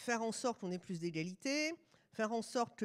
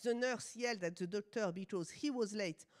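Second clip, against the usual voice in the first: French-accented English; 3 semitones lower than usual. Real, not acted. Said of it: "vous excusez mon accent".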